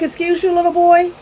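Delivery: high, mock-indignant excuse you; sassy put-down. Mom putting the boyfriend in his place, sassy and high. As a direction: talk down to him, pitched high. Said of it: "I'm like".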